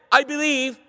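"I believe" pitched high, as an exclamation; emphatic. Shown as a demonstration. Showing the father's answer to Jesus, emphatic "I believe". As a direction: declare "I believe" with firm emphasis. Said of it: "So it's emphatic".

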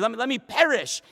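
acted-out swearing; vehement oath. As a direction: insist on your own doom. Acting Peter's oath.

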